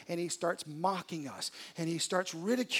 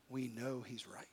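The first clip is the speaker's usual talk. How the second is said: whispered admission; 5 semitones lower, 8 dB quieter than usual. Real, not acted. Preacher whispering to his congregation what they already know. Preacher admits hushed truth.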